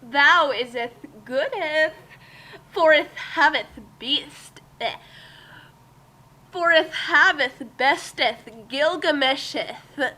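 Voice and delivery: every word ending in -eth; old English villain voice. Acted. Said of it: "I'll voice him, I guess?".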